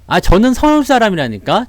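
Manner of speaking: ordinary delivery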